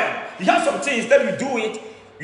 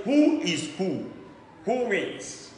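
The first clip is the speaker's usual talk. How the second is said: quiet taunt; 7 dB quieter, much slower than usual. Real, not acted. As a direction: drop the voice and needle them softly. Priest taunting his rivals.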